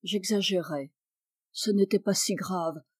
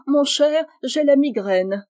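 lofty, louder and higher brush-off; queenly air; 6 semitones higher, 6 dB louder than usual. Acted. Wife brushing off her husband with a haughty excuse. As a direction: play the queen and sweep out. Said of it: "je prends un air de reine".

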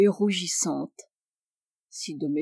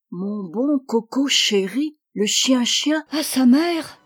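cooing letter; 4 semitones higher, 4 dB louder than usual. Acted. Reading the rival's cooing letter.

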